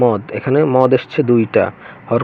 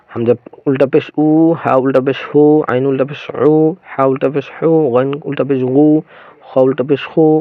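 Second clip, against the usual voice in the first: letter-by-letter chant, each final উ held long; madd drill; 3 semitones higher than usual. Shown as a demonstration. Teacher drills ulta pesh for learners, long final উ sounds. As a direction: draw out the last "oo" after every পেশ. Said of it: "উল্টো পেশের মাধ্যমে মদের উচ্চারণ হবে".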